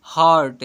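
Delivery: हार्ट loud, with an open a before r; u read as a. Shown as a demonstration. Teacher reads the spelled word to pupils, open a sound. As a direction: punch out हार्ट with a for u. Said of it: "को अ से पढ़ते हैं".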